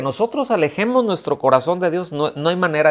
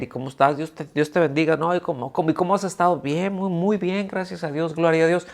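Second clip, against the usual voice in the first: lightly acted churchgoer pleasantries, pitch climbing; mock pious small talk; 4 semitones higher than usual. Churchgoer greeting others while living a double life, mock pious small talk. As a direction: imitate a rote, higher-voiced exchange of blessings. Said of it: "Yo puedo ir y decir".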